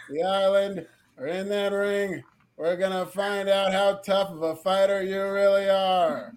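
lightly imitated dull wrestler promo; deadpan Von Wagner. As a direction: drag it out with no energy, mocking the slow delivery. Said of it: "I will cut this promo exactly how Von Wagner cut this promo".

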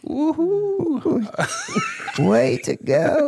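high squeaky sped-up voice; chipmunk voice. Pretend. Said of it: "you were trying to do the chipmunk voice".

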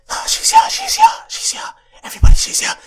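loud, hushed frantic announcing; excited stage whisper. Acted. Friends announcing the crush has arrived, excited loud whisper. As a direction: whisper it urgently to the whole group.

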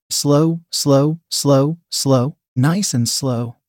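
gentle, drawn-out reassurance; soft, out of character. Acted. Chris drops the act to reassure narrator, speaking gently. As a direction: ease into a slow, unhurried finish. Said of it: "Chris spoke softly, breaking character".

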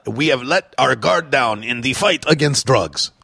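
a bad, hammed-up French accent on the English words; mock a French politician in a clumsy French accent; mock French accent, lightly done; terrible French accent. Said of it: "that's a terrible French accent".

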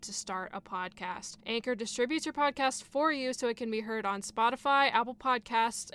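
upbeat podcast ad read. Acted. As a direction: read it like a sponsor spot. Sponsor read.

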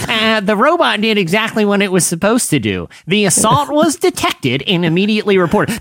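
prim nerdy reading voice; big nerd voice. Retold or imitated. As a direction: read it like a smug nerd. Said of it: "I'm gonna read in a big nerd voice".

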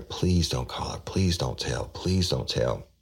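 mild imitation of pleading; retold begging. Woman begging grandmother not to tell, retold pleading. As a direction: plead lightly, drawing out the last plea. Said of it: "I was begging her".

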